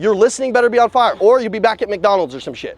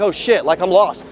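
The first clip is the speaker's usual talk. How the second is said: lost new guy; 3 semitones lower than usual. Shown as a demonstration. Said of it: "Like this".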